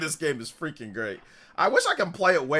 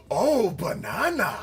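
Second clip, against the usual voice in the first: imitating banana line; 4 semitones higher, slower than usual. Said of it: "to make it like".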